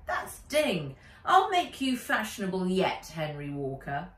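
put-on playful bossy girl.

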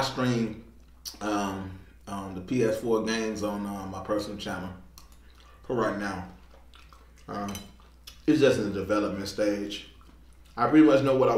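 speaking while chewing food; words muffled by food; mouth full. Real, not acted. Seen 4: fork of food at mouth, bites and chews while speaking.

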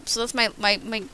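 stumbling over the words; stuttering. Real, not acted. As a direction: stutter on the word "my", losing the thread. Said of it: "I'm, like, stuttering and slurring my words".

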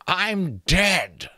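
high, slow creaking taunt; creaking skull voice. A narrator's reading. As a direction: creak and knock like branches in wind. Talking skull speaking.

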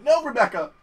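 high mock cry of protest; retold exasperated cry. Player retelling scolding Rebecca, high exasperated cry. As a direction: re-enact scolding your teammate. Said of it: "I'm like".

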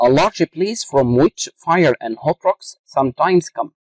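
slow dictation pace. Shown as a demonstration. Teacher reading a definition to students, slow dictation. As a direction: read out very slowly, word by word. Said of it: "teacher reads definition slowly".

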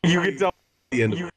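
echo effect. Pretend. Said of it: "that is Force Echo".

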